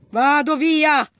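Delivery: slow, stretched "Vado via!"; emphatic slow "Vado via!"; drawn-out exclaim. Real, not acted. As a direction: drag out "via" as you bolt. Fleeing monster in game.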